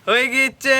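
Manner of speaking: high, drawn-out happy cry; gleeful celebrating. Acted. Customer whose form is done, gleeful celebrating. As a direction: crow it in a high voice.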